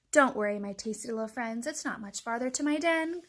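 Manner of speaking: chuckling fox. Acted. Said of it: "chuckled Foxy Loxy".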